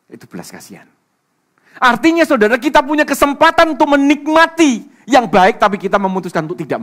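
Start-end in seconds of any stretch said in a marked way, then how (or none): 1.8-6.8 loud, high-pitched preacher's proclamation, easing towards the end; raised, forceful sermon voice; full-force preaching. Real, not acted. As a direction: drive the point home at a shout.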